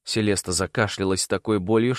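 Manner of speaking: ordinary delivery, nothing marked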